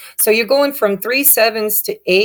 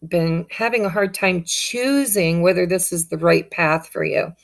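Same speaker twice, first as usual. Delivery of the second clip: ordinary talk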